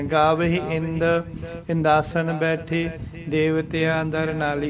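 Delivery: ਇੰਦ and ਬੈਠੇ each followed by a short break; brief pauses. Shown as a demonstration. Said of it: "ਇਸ ਤਰੀਕੇ ਦੇ ਨਾਲ".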